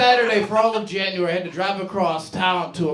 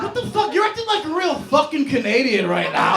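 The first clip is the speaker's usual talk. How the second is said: indignant retort; 6 semitones higher than usual. Retold or imitated. Heated retort to coworker.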